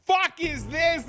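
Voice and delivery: high, loud, slow mock yell; imitating mom confronting her son about the TV. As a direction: belt it like an outraged mother. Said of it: "my mom's like".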